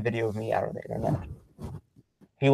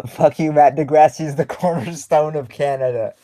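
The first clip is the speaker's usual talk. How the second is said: laughing through the words, pitched up; real amusement; 4 semitones higher, 6 dB louder than usual. Real, not acted. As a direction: read the teasing comment out through laughter. Laughing while reading a viewer's teasing comment.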